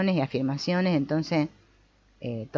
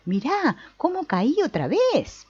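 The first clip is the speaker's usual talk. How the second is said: mock self-pity; 7 semitones higher than usual. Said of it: "Yo, que soy tan espiritual".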